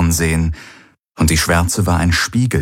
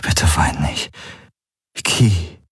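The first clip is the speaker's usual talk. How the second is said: whisper; 3 semitones lower, slower than usual. Acted. Galen comforts crying Key, whispering in her ear. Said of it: "flüsterte er ihr ins Ohr".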